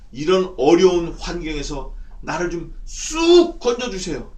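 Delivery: drawn-out, emphatic supplication; demonstrated prayer of distress; fervent pleading prayer. Acted. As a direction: beg God for rescue, stretching the key words. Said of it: "이렇게 엎드려 기도하는 겁니다".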